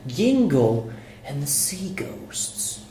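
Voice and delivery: slow spooky whisper. Pretend. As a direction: breathe the title out slowly. Reading book title spookily.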